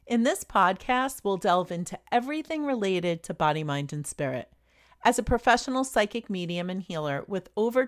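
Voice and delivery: polished, evenly paced host read; scripted podcast intro. Real, not acted. Host welcomes listeners to Psychically Speaking, scripted intro read.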